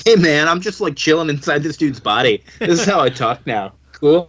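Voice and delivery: lightly imitated laid-back surfer voice; a hint of California dude; Californian surfer dude. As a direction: play it as a chilled-out surfer. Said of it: "a bit of a Californian surfer dude".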